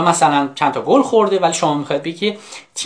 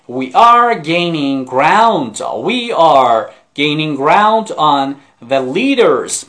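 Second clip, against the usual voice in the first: slow model reading; 4 dB louder, much slower than usual. Shown as a demonstration. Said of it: "با صدای بلند لطفاً تکرار کنید".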